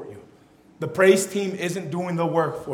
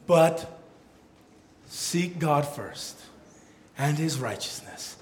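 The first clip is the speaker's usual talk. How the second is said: subdued, lower preaching voice; gentle sermon close; 4 semitones lower than usual. Acted. Preacher reassuring listeners not to worry, subdued sermon close. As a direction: bring it down to a calm, earnest appeal.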